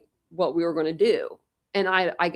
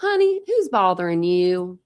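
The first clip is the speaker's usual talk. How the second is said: put-on louder, lightly Southern-accented repeat; 5 dB louder than usual. Pam repeating her concern, mild Southern accent. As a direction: repeat it with a hint of Southern twang. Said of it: "a Southern accent".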